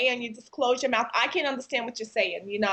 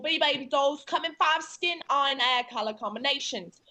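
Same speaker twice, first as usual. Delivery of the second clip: Cockney accent; 2 semitones higher than usual. Shown as a demonstration. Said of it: "can you do low class British".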